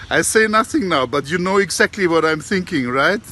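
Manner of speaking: a parrot hinting slyly; the parrot teasing the auntie, high and sly. Retold or imitated. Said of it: "And then he says".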